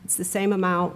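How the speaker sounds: "same" leaned on a little harder; stress on same. Real, not acted. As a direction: press the word "same" to reassure. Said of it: "I just want to emphasize again".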